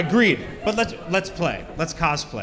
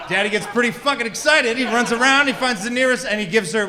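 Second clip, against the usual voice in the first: rising excitement; 5 semitones higher, 4 dB louder than usual. Acted. Excited punchline build.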